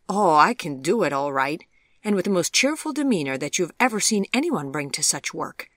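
lightly voiced English accent, no R in work; cheerful Sheffield-accented boast. A narrator's reading. Chip cheerfully boasts to Vivian in a light English accent. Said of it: "in his fascinating accent".

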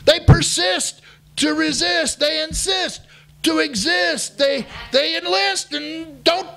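rally the crowd with rhymes; rousing shout. Acted. Rousing rhyming chant to the crowd.

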